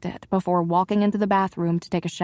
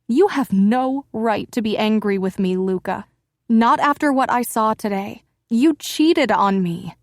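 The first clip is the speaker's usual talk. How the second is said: louder, slowing at the end; wife snarling an accusation at her husband; snarled; 3 semitones higher, 5 dB louder than usual. Acted. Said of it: "Luca snarled".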